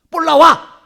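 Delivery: high, loud summons; shouted command. Shown as a demonstration. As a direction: call it up in one forceful burst. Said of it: "그렇게 하고".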